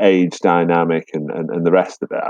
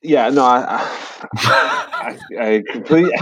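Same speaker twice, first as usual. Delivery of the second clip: stumbling as if teeth slipped; loose dentures; 6 semitones higher than usual. Real, not acted. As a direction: trip over words, teeth loose. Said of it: "Let me put my teeth back in".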